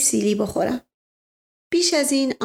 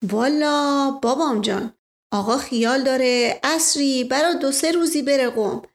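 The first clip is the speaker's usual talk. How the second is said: put-on isfahani accent; 2 semitones higher than usual. Mash Ghasem answers narrator.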